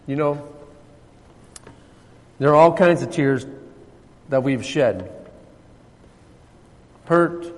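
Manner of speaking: soft, low, intimate sermon voice; tender preaching. Acted. Pastor consoling his congregation about their tears, hushed and tender. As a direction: drop right down and comfort them softly.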